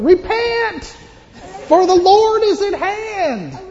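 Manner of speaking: loud, high preaching holler; John the Baptist. Acted. Prophet going around warning the people, high full-force shout. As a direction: cry it out at full force, drawn out. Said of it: "he went around saying".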